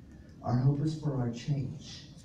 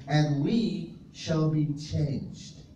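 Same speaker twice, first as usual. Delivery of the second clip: slow emphatic repeat; much slower than usual. Shown as a demonstration. Preacher repeating scripture to the congregation, slowly. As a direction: draw each word out slowly. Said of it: "he says".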